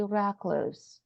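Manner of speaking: recluse with the first syllable like "rack"; American pronunciation. Shown as a demonstration. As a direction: say recluse as RACK-luhs, falling at the end. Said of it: "while in America, they would say".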